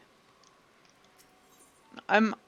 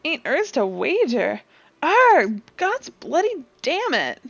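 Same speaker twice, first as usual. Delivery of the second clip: gruff pirate voice; 7 dB louder than usual. Acted. Old sailor fretting over the wager, gruff pirate voice. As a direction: growl it like an old sea dog.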